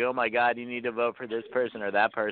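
ordinary talk

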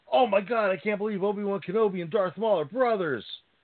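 playful, fake shocked exclamation, called out. Retelling walking past a line of people waiting for a movie, retelling a yell. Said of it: "and I yelled out".

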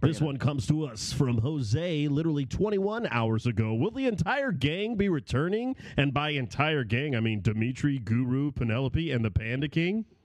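put-on announcer-style radio DJ voice. Reading out a listener's question from jose, in a radio dj voice. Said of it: "I should do my DJ voice".

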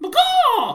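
shrieking, very high falsetto shout that cracks. Giving an example of a good call to copy: falsetto call with voice crack. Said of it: "You gotta like, really falsetto it... you gotta have the voice crack in it. ... So it sounds like this".

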